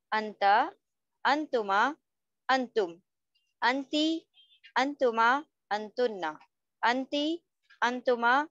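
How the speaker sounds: measured table recitation, a pause after each group; repeat-after-me drill. Shown as a demonstration. Teacher leading students to memorise the table, repeat-after-me drill. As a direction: recite word by word, lilting up, then closing each set. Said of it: "साथ साथ हमारे repeat करना है".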